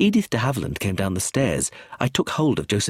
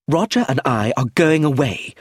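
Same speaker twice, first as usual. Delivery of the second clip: sharp, louder angry retort; 4 semitones higher, 5 dB louder than usual. Acted. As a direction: snap back angrily. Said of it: "said Clemency angrily".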